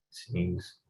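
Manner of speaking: a real sneeze into a tissue; sudden muffled sneeze. Real, not acted. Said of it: "sorry, I blow my nose".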